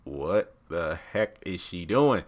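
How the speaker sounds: slow, disbelieving mutter; baffled. Retold or imitated. Vlogger reacting to Tally's blunder, slow disbelief. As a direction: drag it out in disbelief. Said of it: "I'm like".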